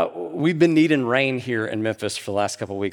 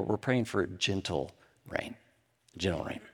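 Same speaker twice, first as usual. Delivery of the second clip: soft and gentle; 3 semitones lower, 7 dB quieter than usual. Acted. Preacher softens on gentle rain.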